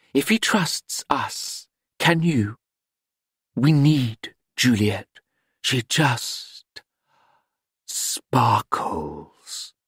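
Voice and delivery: a touch of theatrical lady; Madame voice. A narrator's reading.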